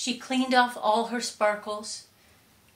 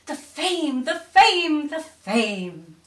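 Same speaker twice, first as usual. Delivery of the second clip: reveling in fame; 7 semitones higher, 8 dB louder, slower than usual. A narrator's reading.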